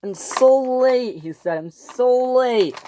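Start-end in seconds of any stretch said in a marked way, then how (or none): 0.0-1.2 fretting. A narrator's reading. Westy frets about the mail. 1.6-2.8 fretting. A narrator's reading. Westy frets again.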